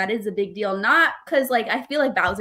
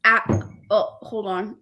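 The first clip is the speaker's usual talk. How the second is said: talking around an ice cube; mouth full; slower than usual. Real, not acted. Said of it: "there's an ice cube in my mouth".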